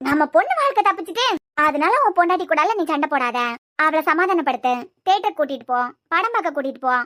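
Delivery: a hint of a sweet-talking mother-in-law, lightly voiced; mocking the mother-in-law. Wife mocks what her husband's mother told him, lightly sneering. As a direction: parrot the mother's advice back with a sneer. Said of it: "இப்படி எல்லாம் சொல்லி விட்டாவளா?".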